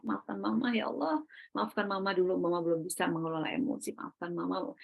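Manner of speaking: lembut dan pelan, nyaris berbisik; minta maaf lembut. Retold or imitated. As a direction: ucapkan maaf pada anak dengan lirih. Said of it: "Minta maaf". (permintaan maaf lirih seorang ibu)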